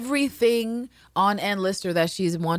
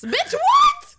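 高声尖叫般的震惊; squeaky high stunned "what"; shocked squeal; 8 dB louder than usual. Retold or imitated. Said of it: "And she was like".

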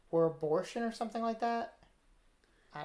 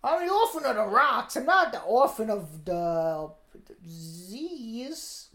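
mock British accent, pitched up; put-on British accent; 3 semitones higher, slower than usual. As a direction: complain in a hammed-up British urchin voice. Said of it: "listen to that British accent".

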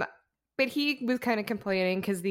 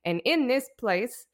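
put-on loud, high, slow drunken orator; drunk speech; 7 semitones higher, 6 dB louder than usual. Vice president drunkenly ranting his inauguration speech, loud and slurry. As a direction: bellow it out like a plastered vice president. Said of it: "can I give you a little of the speech".

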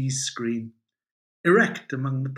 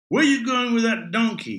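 gruff dictator; 10 semitones higher, 7 dB louder than usual. Acted. Franco voiced in a joke.

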